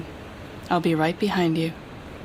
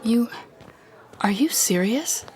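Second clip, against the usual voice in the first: incredulous whisper; 5 semitones higher than usual. Acted. Villain mocks hero's request.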